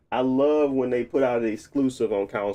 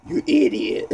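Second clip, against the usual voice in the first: mock insult; 2 semitones lower than usual. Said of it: "They said".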